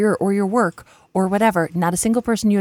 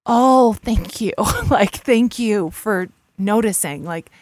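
grateful; 2 semitones higher, slower than usual. Retold or imitated. Grateful reply to honest friend.

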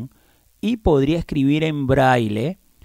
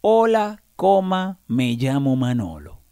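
dictating; slower than usual. Shown as a demonstration. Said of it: "quisiera escribir".

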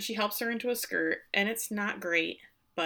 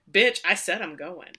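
defiant; 7 dB louder than usual. Retold or imitated. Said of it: "I have in there".

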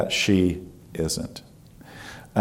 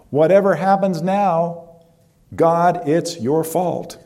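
angry prayer; 4 semitones higher than usual. Retold or imitated. Woman arguing with God before her arrest, building to an angry accusation. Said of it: "she's fighting with God".

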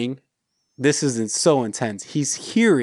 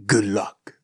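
low, mildly cocky send-off; 5 semitones lower than usual. Retold or imitated. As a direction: toss it off like a smug kidnapper. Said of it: "very cocky, just says".

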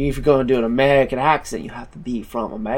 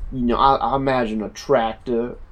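put-on American accent. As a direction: talk like an American farmer on a tractor. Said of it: "that's a really good accent".

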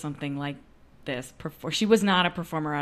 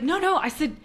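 retold urgent questioning; 9 semitones higher than usual. Retold urgent questioning of colleague on phone.

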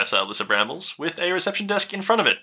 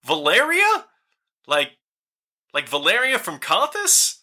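high, rushed stream of anxious questions; a startled woman tumbling over her own words; keyed-up gnome; 14 semitones higher than usual. Acted. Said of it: "really keyed up".

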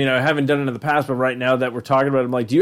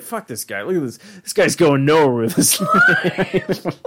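sneering coworker. Retold or imitated. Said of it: "He would always be like".

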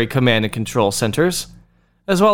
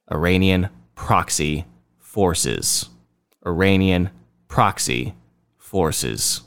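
mock dystopian machine voice ordering compliance; sinister propaganda voice; 10 semitones lower, 3 dB quieter than usual. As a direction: intone it like a robotic overlord issuing orders. Mocks propaganda machine giving orders.

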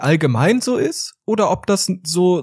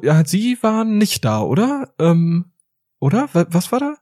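higher, questioning lecturer; lecturer asking; 3 semitones higher than usual. Retold or imitated. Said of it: "dann meinte er so". (höherer, fragender Dozent)

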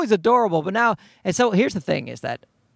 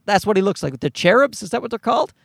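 ordinary talk

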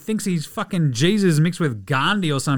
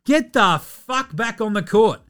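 mock angry KD; 5 semitones higher than usual. KD ranting at Kyrie to get back on court, hammed-up fury. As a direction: lay into him, each word slowed. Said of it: "K D going".

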